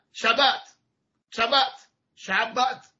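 شبت said with a short a, not آ; Sephardic vowels. Shown as a demonstration. Teacher repeating the Sephardi pronunciation of Shabbat.

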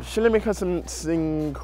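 fake foreign language. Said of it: "Start talking to in a fake language".

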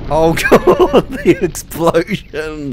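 drawn-out words broken by laughter; excited laughing. Real, not acted. Player reacts to the explosion, laughing and excited.

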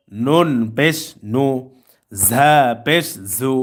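slow, measured syllable-by-syllable recitation; spelling drill. Shown as a demonstration. Teacher modelling tanween words for learners to follow, measured drill recitation. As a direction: draw out each letter name, pausing between phrases.

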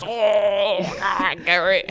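imitated exasperated shout; high, loud mock holler at an employee; Trip. Boss yelling at his worker, hammed-up shout. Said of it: "That's how he sounds".

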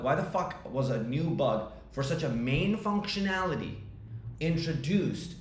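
retold exasperated questioning, pitch lifting toward the end; pissed off. Founder reacting to a bug that a customer caught, pissed off. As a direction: press the point in annoyed disbelief. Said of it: "the part that pissed me off".

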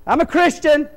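mock zombie Christian. Preacher mocks a still-bound Christian, high and loud. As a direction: ham up a wrapped-up dead man bragging. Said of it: "What if I continue my life like this?".

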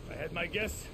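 quiet tactical briefing; hushed. Acted. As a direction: keep it down, you're sneaking in. Sneaking onto the island.

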